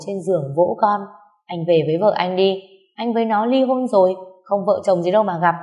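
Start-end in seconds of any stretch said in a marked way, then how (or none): 1.5-5.5 curt, cold and a little louder. Acted. Nghé turning the husband away at the door, cold and curt. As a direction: shut him out coldly. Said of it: "Chị Nghé nói lạnh lùng".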